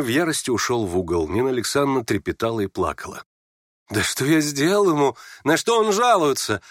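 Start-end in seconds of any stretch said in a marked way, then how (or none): 3.9-6.6 higher-pitched, indignant protest; crying out. Acted. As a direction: cry out in mild indignation. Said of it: "вскричал Ипполит". (возмущённый вскрик)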